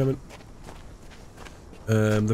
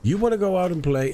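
higher mocking echo of the father; a hint of the sneering dad; mock angry father; 9 semitones higher than usual. Retelling the story, gamer sneers as the father. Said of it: "and his father said".

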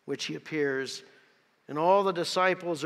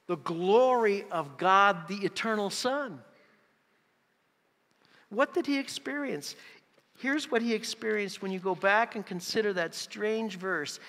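raised voice building to a loud, high proclamation; impassioned preaching; 5 semitones higher, 4 dB louder than usual. Acted. Preacher tells congregation what Thomas experienced, impassioned and building. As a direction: preach it with mounting force. Preaching at rising full force.

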